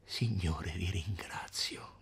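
sussurro lento e sollevato; ringraziamento sussurrato. Acted. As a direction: ringrazia il cielo sottovoce. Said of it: "esclamò Agnese". (sussurro di sollievo)

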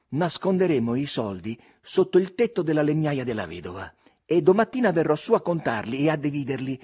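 put-on a boy confidently deciding what to do; planning Tom. A narrator's reading. Tom telling Huck where to hide the money: eager plan.

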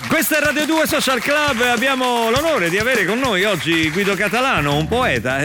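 high, loud radio presenter introduction; radio host intro. Acted. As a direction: sell the guest's arrival like a show host. Host introduces guest on air.

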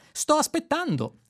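the computer tapping its foot; impatient. A narrator's reading. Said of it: "lo interruppe Eddie". (computer impaziente, tono cantilenante)

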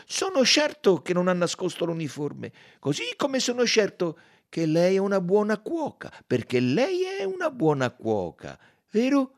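high, loud, emphatic encouragement; heartening. A narrator's reading. Detective assures the maid he believes her, emphatically heartening. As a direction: cheer them on with full conviction. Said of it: "la rincuorò".

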